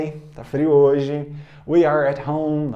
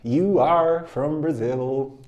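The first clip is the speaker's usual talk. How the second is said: slow, evenly paced repetition; slow drill; much slower than usual. Shown as a demonstration. Teacher repeats the line slowly at normal pitch. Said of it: "Repeat after me".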